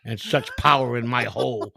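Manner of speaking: slow put-on Indian-Nigerian accent; mock Indian accent. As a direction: imitate the scammer in a wannabe Indian accent. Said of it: "You went to a wannabe Indian voice".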